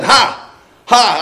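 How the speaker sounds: high, loud mocking "ha"; triumphant gotcha. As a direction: jump out crowing in triumph. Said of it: "The neighbor jumped out from behind a bush and said".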